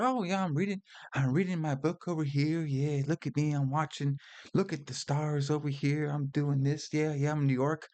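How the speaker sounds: lightly imitated Christopher Walken accent. Host imitates Walken's character rambling as he reads, mock accent. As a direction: do a rambling Walken-style New York accent. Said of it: "he's like the accent".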